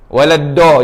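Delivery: "Waladdo" with a plain d, no side rebound; dad turned to dal. Shown as a demonstration. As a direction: demonstrate the faulty "Waladdo". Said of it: "Jadi huruf dal lah pula". (sebut "Waladdo" dengan bunyi dal)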